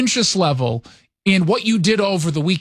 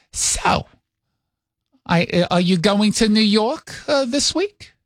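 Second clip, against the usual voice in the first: light New York-accented mom impression; mock motherly questioning, New York accent; mother's New York accent; 3 semitones higher, slower than usual. Mother asks son about his trip, light New York accent. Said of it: "Does your mom actually have a New York accent".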